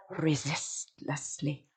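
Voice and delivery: "resistlessly" in slow, separated beats; like a drum. Shown as a demonstration. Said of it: "A drum?".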